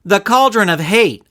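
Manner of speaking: put-on eager young girl cutting in; girl interjecting. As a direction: blurt it out like a bright kid. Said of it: "a skinny girl interjected".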